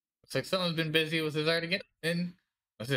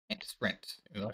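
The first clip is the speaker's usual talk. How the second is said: whispered aside; 5 semitones lower, 7 dB quieter than usual. Real, not acted. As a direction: breathe it out under your breath. Muttered aside while playing.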